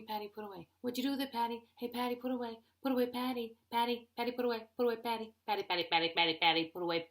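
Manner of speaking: repetitive nagging husband impression; mock angry husband. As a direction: badger her by nickname, lightly mad. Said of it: "he gets mad at me".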